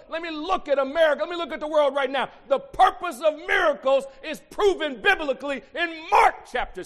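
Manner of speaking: loud, high preacher's shout; full-force preaching. Acted. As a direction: preach it hard to the congregation.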